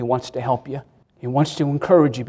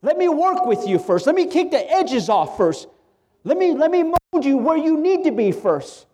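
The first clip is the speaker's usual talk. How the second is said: voicing God; 10 semitones higher than usual. Pastor voicing God to his congregation, gentle and raised. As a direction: speak as a patient God shaping his child. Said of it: "God says".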